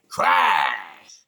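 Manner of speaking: sudden loud bark of crash; retold shout. Man recalling the night he fought back, shouting. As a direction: yell it out like throwing a punch.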